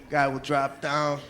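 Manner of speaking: ordinary talk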